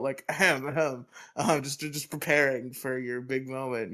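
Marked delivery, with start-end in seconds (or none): 0.3-1.6 fake throat clearing. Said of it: "clearing your throat".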